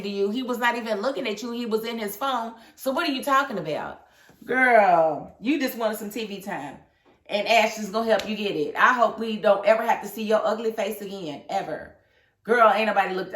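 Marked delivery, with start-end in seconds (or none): 2.8-13.3 heated rant. Real, not acted. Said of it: "I got a little emotional".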